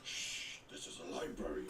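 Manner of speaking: hushed, breathless shush; librarian shushing whisper. Acted. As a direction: whisper it, scolding gently.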